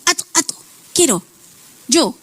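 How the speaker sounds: a hint of a toddler begging; a little boy asking for the toy car; child wanting a toy. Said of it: "Y el niño dice".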